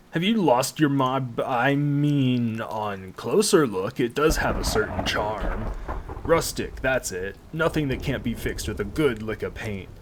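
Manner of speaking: wry, teasing driver voice; mocking coachman voice. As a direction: tease the new owner, then turn dry. Reads the driver's mocking lines.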